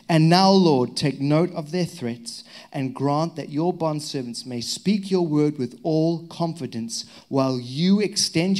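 slow, solemn read of the prayer; scripture reading. Acted. Pastor reading the apostles' prayer to the church, slow and solemn. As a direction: read the prayer aloud with weight, slowly.

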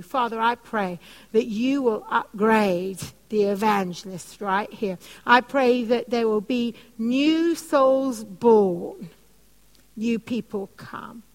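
lightly slowed prayer voice. Acted. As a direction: pray over them, unhurried. Prays over the congregation.

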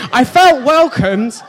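slow words through laughter; preacher laughing at his own story. Real, not acted. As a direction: try to stay serious while laughing. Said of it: "I'm trying to make a point here".

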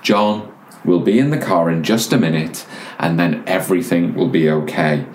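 lightly imitated patient dad, pitch easing down; very calm. Dad at the tills while the boy kicks, very calmly. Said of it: "the dad was very calmly saying over and over".

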